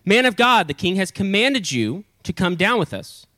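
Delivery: high, brisk official order. Acted. First captain summoning Elijah, mildly authoritative. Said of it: "first one was kinda a little bit less".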